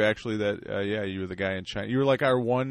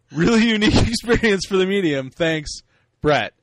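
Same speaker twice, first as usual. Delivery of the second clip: wacky puppet voice, higher and louder; mail puppet; 5 semitones higher, 6 dB louder than usual. Acted. Host reading listener email as the mail puppet, loud high wacky voice. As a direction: read it as a loud, silly radio puppet character. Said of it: "I'm gonna do this in a voice".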